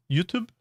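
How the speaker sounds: YouTube said with a rising, unsure jʉtub; practising pronunciation. Shown as a demonstration. Streamer practising the word she finds hard, tentatively. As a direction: tries saying YouTube with a rounded ʉ, questioning. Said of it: "It's not easy for me to say".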